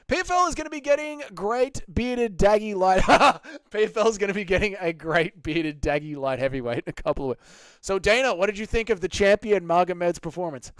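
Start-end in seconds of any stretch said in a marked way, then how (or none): 0.1-7.8 laughing. Real, not acted. Laughing through chat joke.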